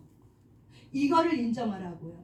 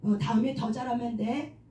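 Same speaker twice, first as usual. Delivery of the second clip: soothing self-talk; 2 semitones lower than usual. Shown as a demonstration. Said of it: "자기 이름을 불러가면서 그렇게 얘기한다는 거죠".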